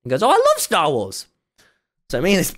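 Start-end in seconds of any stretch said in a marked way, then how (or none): 0.2-1.3 high, slow gushing fan; a nurse lighting up over Star Wars; excited nurse. Retold or imitated.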